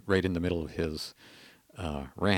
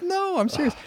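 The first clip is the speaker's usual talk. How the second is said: earnest insistence. Retold or imitated.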